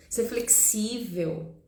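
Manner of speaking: Ser flexível drawn out slowly, each word weighed; slow emphasis. Shown as a demonstration. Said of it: "esse feminino que a gente precisa".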